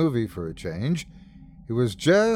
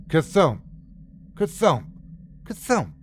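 imitated thuds, pitched up as they climb; mounting thump; 4 semitones higher than usual. A narrator's reading. Narrator imitates the sound coming up the stairs, mounting. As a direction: voice the thumps rising in urgency. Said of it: "louder and louder".

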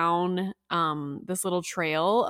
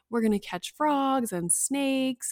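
put-on slightly higher, slow talk-up for a child; a touch of camp-counselor enthusiasm; imitated excited counselor; 5 semitones higher, slower than usual. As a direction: make it sound fun, mildly. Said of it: "just making it excited".

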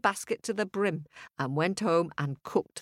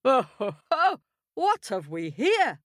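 high delighted squeal; excited shriek; 7 semitones higher than usual. A narrator's reading. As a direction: squeal it with glee. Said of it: "The farmer's wife shrieked".

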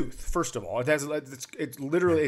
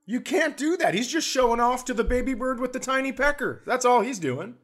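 mock outraged bystander; 10 semitones higher than usual. Objecting to the donger remark, high mock indignation. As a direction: defend the big bird, pitched up. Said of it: "You're like".

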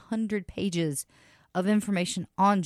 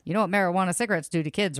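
put-on fast old-timey radio announcer; hammed-up newsreel warning voice; 1930s radio announcer; faster than usual. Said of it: "I just like doing that voice".

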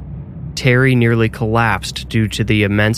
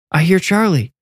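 put-on boy shouting, higher pitch; excited shout; 8 semitones higher than usual. A narrator's reading. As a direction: call it out eagerly, much higher. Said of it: "Max shouted".

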